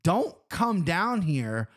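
mock a guard laying down the rule; drawn-out warning in a retold guard's voice; imitated snapping guard. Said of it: "Like, snapped at me".

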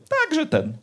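high, dismissive sing-song shrug of a phrase; mum's dismissive tone. Retold or imitated. Mum closing the gruesome story, high dismissive shrug. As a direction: toss it off like a mum ending the topic. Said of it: "Mama to powiedziała takim głosem".

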